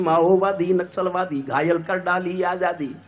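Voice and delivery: measured, rhythmic verse delivery; declaimed verse in a steady cadence; poem recitation. Acted. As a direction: recite it as stage poetry.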